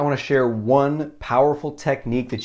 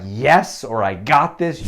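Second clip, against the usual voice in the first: louder firm affirmation; confident yes; 2 semitones higher, 5 dB louder, slower than usual. Shown as a demonstration. Alone and pumped up, a louder firm affirmation. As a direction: say it with conviction. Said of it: "say something like".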